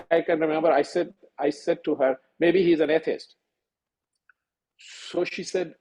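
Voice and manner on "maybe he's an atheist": a mild sarcastic jab; half-teasing, lightly sarcastic retort. Retold or imitated. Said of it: "And I, sarcastically".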